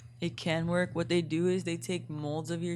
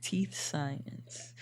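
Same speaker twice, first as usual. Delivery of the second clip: whispered; 2 semitones lower, 7 dB quieter than usual. Real, not acted. Whispered joke.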